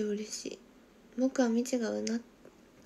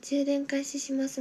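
charger announcement voice; 3 semitones higher, slower than usual. Pretend. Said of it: "みたいな声言ってくれたら".

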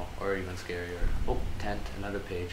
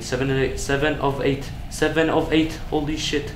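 loud, raised-pitch repeated exclamation; excited shouting; 5 semitones higher, 6 dB louder than usual. Real, not acted. Gamer on reaching seven of eight pages, excited shouting. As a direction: build louder and higher with each repeat.

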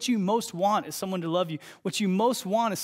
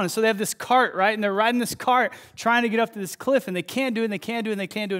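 higher, louder, building excitement; animated storytelling; 4 semitones higher, 6 dB louder, faster than usual. Acted. Pastor retelling Inside Out to congregation, excited. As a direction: tell it like the cart is about to fail.

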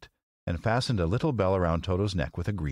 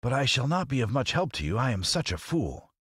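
high scarecrow voice; self-deprecating Scarecrow; 6 semitones higher than usual. Acted. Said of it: "declared the Scarecrow".

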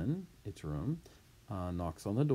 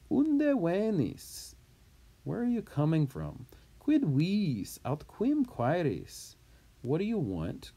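gruff questioning; 8 semitones higher, 4 dB louder than usual. Acted. Doorkeeper questions the caller.

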